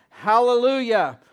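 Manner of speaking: loud, high triumphant cry; roaring hallelujah of the crowd; shouted hallelujah. Retold or imitated. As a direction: let the hallelujah thunder.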